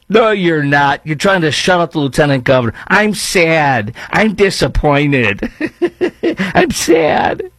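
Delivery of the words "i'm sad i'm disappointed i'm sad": high, whiny fake sadness with a laugh; mock whiny sadness. Host mocking the columnist's sad friend, high and whiny. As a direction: whimper it like a pouting child, then giggle. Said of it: "That's the leftist way of saying".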